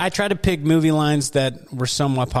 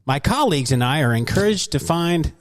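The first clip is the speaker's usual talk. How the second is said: high-pitched nerd voice; 3 semitones higher than usual. Retold or imitated. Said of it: "You put on your, like, high-pitched nerd voice for that".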